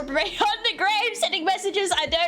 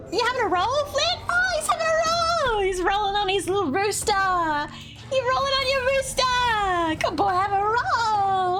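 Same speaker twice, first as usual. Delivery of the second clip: high cooing praise for a pet; doting dog talk; 5 semitones higher than usual. Real, not acted. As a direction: gush over the rolling dog. Baby talk to dog rolling.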